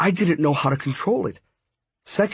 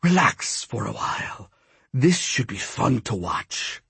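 gloating villain; 2 semitones lower, 3 dB quieter than usual. A narrator's reading. Apuch to the caged narrator, lazily gloating. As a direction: settle back and gloat, pitched down.

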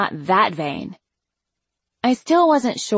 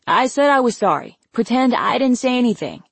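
higher, pleading protest; exasperated apology; 5 semitones higher than usual. A narrator's reading. Brother apologizes to Mom to stop her lecture, exasperated. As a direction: beg to take it all back.

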